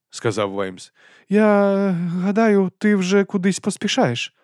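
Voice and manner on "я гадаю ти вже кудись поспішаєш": dragged, hesitant words; very slow. A narrator's reading. Vimes stalls the goodbye, very slow and awkward. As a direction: stretch it out awkwardly.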